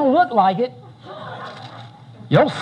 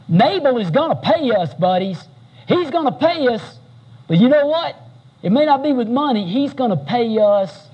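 higher, heated mock rallying shout; furious vow; 3 semitones higher than usual. David vows revenge on Nabal to his men, hammed-up heated shout. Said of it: "And he shouts to all his guys".

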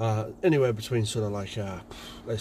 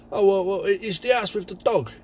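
higher, louder impatient insisting; exasperated caller; 9 semitones higher, 5 dB louder than usual. Retold or imitated. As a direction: spell it out impatiently.

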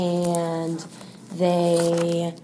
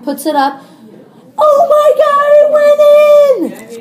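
building announcer call, louder and higher to a screaming climax; sports announcer; 4 semitones higher, 10 dB louder than usual. Shown as a demonstration. Teacher demos a play-by-play call for the student, louder and higher. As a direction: call the last shot like a TV announcer. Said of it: "do you want me to do it first".

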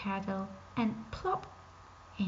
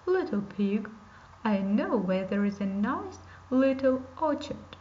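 wolf voice; 4 dB louder than usual. Acted. Wolf tempting the pig.

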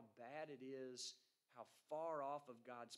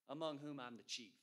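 louder, punching chief; preacher quoting Paul, louder on chief; emphatic confession; 5 dB louder than usual. Retold or imitated. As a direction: declare it, hitting chief hard. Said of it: "This is what he says".

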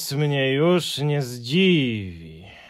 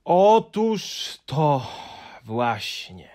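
very slow, louder, higher wailing lament; despairing; 7 semitones higher, 7 dB louder, slower than usual. A narrator's reading. Hemulen lamenting his complete collection in despair. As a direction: wring out each word in despair. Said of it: "z rozpaczą".

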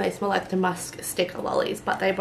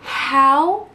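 shrieking jackpot winner; 4 semitones higher, 5 dB louder than usual. Real, not acted. Shrieking at the butterscotch scent.

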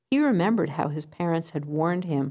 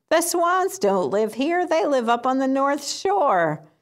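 pigeon voice pitched much higher and louder; amused pigeon; 8 semitones higher, 4 dB louder than usual. Acted. Pigeon corrects the duck, amused, pitched high. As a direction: tease the lost duck as the pigeon.

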